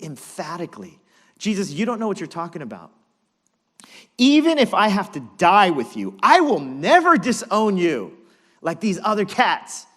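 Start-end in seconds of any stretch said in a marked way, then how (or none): 1.4-9.8 loud, higher Brooklyn tough-guy bravado; Brooklyn swagger. Acted. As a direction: play Peter as a cocky Brooklyn guy. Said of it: "Brooklyn swagger Peter's got".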